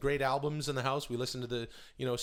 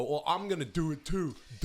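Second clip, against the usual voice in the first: Screech; 3 semitones higher than usual. Retold or imitated. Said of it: "shitheads like, like Screech go".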